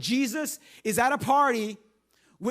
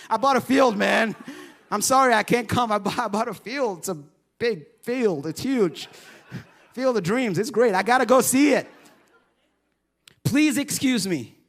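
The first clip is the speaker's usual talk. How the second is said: louder, overeager made-up excuse; hammed-up excuse; 5 dB louder than usual. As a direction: sell the lie loudly and cheerfully. Guest loudly making his excuse.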